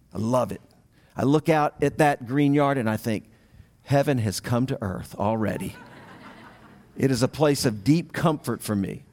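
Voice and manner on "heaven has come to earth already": laughing contentment. Retold or imitated. Gazing at his green yard.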